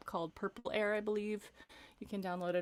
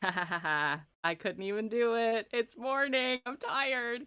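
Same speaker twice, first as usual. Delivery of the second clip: laughing at herself; 3 semitones higher, much slower than usual. Real, not acted. Laughs at failing own exercise.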